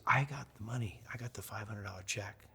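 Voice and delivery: softly retold tearful words, fading away; imitated tearful fan. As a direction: quietly echo a crying fan. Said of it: "she's crying".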